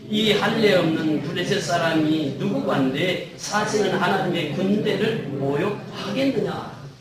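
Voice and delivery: measured congregational Bible reading; scripture reading. Acted. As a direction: read the verses out slowly and evenly. Reads scripture aloud with congregation.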